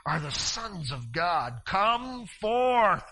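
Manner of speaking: slow, groaning call that swells on come forth; a hint of a longing cry from the nations; the nations groaning for God's sons, a slow call. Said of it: "a groan within the nations right now saying".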